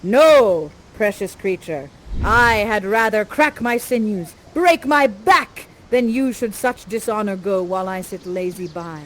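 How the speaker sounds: gallant Ferdinand. Retold or imitated. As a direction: proclaim it like a gallant young lover. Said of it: "you're like".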